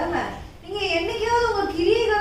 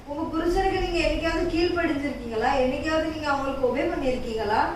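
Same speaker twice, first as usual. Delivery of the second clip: ordinary talk, nothing marked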